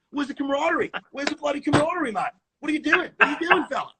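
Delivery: put-on hot-headed Aussie accent, pitched high; Nathan Sheens. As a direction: imitate a rough-edged Australian mate bursting in to scold. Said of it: "he'd come in hot".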